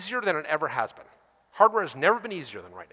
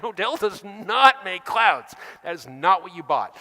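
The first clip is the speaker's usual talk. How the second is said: patient deadpan answer; 3 dB louder, slower than usual. Retold or imitated. Answering the customer.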